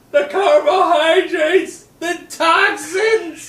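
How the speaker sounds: drawn-out, high, loud mock wail; hammed-up outcry. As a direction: belt it out slowly, imitating overblown movie acting. Acts out the woman's dramatic movie line.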